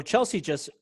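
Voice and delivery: ordinary talk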